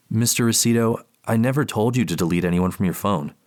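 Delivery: polite clinical therapist. Acted. Therapist on the phone.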